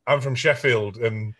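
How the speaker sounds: put-on lightly thickened northern English accent; deadpan Sheffield accent for a joke. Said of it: "the more northern I get".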